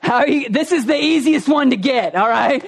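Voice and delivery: mildly hammed-up exasperation, rising in pitch; mock exasperated teacher. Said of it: "he's kind of exasperated".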